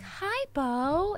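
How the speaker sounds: Minka. Retold or imitated. Mom shows son how her friend says hello, soft and high. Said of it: "What does Minka's voice sound like again".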